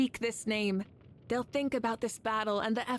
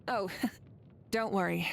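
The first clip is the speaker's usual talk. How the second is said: light laugh. Acted. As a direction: laugh off their worry gently. Laughs off concern about overwork.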